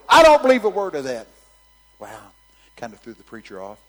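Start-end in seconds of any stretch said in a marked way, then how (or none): 0.1-1.3 loud high heckler shout. Retold or imitated. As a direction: shout him down. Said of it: "the heckler go".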